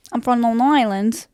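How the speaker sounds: a light Long Island accent; lightly demonstrated Long Island accent. Shown as a demonstration. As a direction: put on a hint of Long Island. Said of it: "I usually revert to is Long Island".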